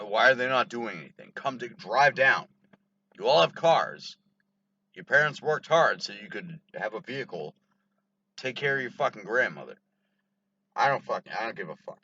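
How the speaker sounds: fed-up rant at lazy relatives; angry rant. Real, not acted. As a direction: vent at the absent family. Ranting about absent relatives.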